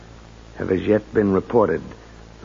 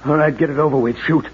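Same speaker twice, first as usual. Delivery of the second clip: louder, higher, daring him to shoot; defiant; 5 semitones higher, 4 dB louder than usual. Acted. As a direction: spit it out at the gunman. Facing a gun, defiant.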